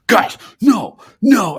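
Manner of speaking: lightly voiced high old man; cranky old man.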